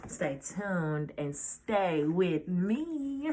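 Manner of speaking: slow, drawn-out, laughing through it; laughing sign-off. Real, not acted. Vlogger teases viewers to wait for next story, laughing. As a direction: tease the audience as you laugh.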